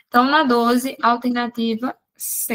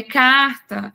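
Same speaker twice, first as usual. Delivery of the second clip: "carta" stretched slowly and louder, singular form; slow, drawn-out carta; 3 dB louder than usual. Shown as a demonstration. Teacher to class, slow louder carta. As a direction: draw out "carta" slowly as the base word. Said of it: "eu consigo dizer cartas".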